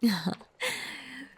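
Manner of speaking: brief chuckle. Acted. Possessive lover chuckles to captive.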